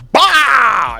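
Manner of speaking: loud, high "bah" burst; imitated kick impact. Storyteller acting out the running kick, explosive impact noise.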